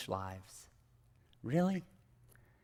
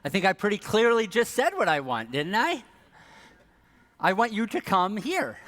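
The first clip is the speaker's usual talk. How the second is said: exasperated parent; 4 semitones higher, 4 dB louder than usual. Acted. Parent retorts to kid's reply.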